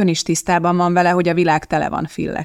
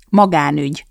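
firmly. Acted. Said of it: "mondta az anyja határozottan".

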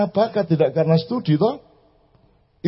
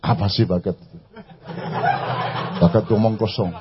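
mocking laugh; 9 semitones lower, 4 dB quieter than usual. Mocking the talent critics.

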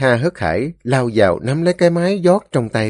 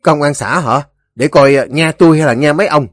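raised, scornful challenge; contemptuous Ba Xị; 5 semitones higher, 5 dB louder, faster than usual. A narrator's reading. Ba Xị sneers at the mention of commune police, contemptuous. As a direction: scoff at the threat, pitched up. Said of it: "Ba Xị cười khì khinh khỉnh".

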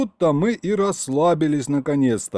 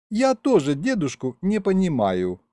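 drawn out; 7 semitones higher than usual. A narrator's reading. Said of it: "протянула Маша".

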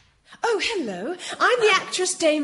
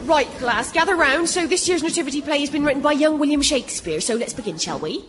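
primary school teacher; 3 semitones lower, faster than usual. Acted. Teacher introducing nativity play.

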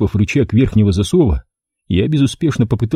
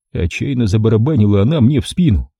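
ordinary delivery

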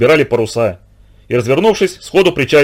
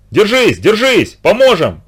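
higher, slow drawn-out call; 6 semitones higher, slower than usual. A narrator's reading. Villagers on the shore call to the drowning men, slow high call. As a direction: stretch each word to reach the drowning. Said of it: "Встревоженные люди кричали".

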